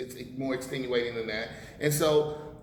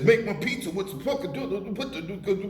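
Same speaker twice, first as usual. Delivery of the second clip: mock dumb tourist; 6 semitones higher than usual. Mocking a stupid American ordering pizza in Italy, hammed-up higher voice. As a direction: ham up the ignorant tourist demanding toppings.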